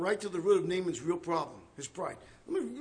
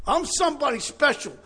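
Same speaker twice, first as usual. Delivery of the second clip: boastful Naaman; 4 semitones higher, 5 dB louder than usual. Acted. Preacher acts out Naaman boasting.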